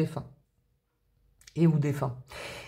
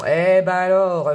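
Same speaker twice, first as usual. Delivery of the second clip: drawn-out, slower "Eh ben alors" in a mock regional accent; put-on accent; 5 dB louder, slower than usual. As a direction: slips into a jokey accent on "Eh ben alors", slow and a bit louder. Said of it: "c'est quoi cet accent?". (prononcé avec un faux accent, lent et appuyé)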